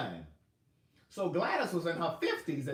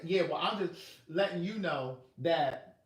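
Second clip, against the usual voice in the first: mother's ultimatum; 2 semitones higher, 4 dB louder than usual. Retold or imitated.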